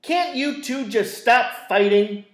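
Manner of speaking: put-on fed-up mother snapping at her children; snapping mom. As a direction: snap at the bickering kids. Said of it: "She snapped".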